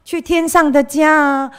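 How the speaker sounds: 像主日学老师那样高声劝勉孩子; Sunday school teacher. Retold or imitated. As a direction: urge the kids along like a cheery teacher. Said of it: "记得老师说".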